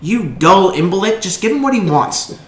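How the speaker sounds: put-on high, loud, slow sneering young noble; arrogant young noble. Young noble scolding the stallkeeper, high and sneering. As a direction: look down on the shopkeeper from a great height. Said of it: "a young man kind of comes up alongside you and he goes".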